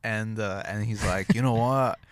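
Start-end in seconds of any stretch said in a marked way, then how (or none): 1.3-2.0 rough attempt at drunk Australian; drunk Australian accent. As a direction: lightly imitate a drunk Australian. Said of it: "my attempt at an Australian drunk Australian accent".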